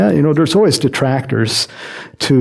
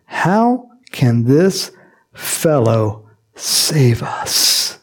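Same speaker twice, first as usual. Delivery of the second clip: slow, sneering doubt; scoffing; much slower than usual. Retold or imitated. Scoundrel scoffing at Saul, slow and sneering. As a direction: drag it out with contempt. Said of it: "some scoundrel said".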